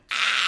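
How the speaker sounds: mock scream of fright; startled scream. Retelling waking up possessed, mock scream. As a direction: cry out as if jolted awake.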